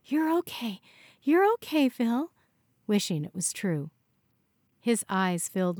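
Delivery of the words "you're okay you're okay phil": high, urgent reassurance; panicked reassurance. A narrator's reading. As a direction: insist he's fine in a panic. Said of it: "She started to panic".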